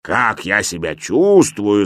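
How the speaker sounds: mild mock shout. A narrator's reading. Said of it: "закричал я".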